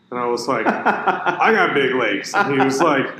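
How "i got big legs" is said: laughing. Real, not acted. Laughing while retelling.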